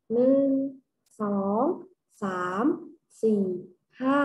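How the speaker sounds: spaced count, a pause after each number; counting aloud. Shown as a demonstration. Teacher counting mangosteens with the children, spaced-out counting aloud. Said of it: "เรามานับก่อน".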